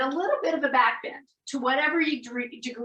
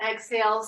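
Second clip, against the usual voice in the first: drawn-out s like a snake; faster than usual. Shown as a demonstration. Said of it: "the sound like a snake".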